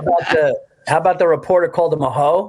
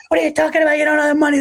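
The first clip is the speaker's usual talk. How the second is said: a radio host mocking the coach, higher; imitating Mad Dog; 10 semitones higher, much faster than usual. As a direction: rant like Mad Dog in full flight. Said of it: "He goes, he goes".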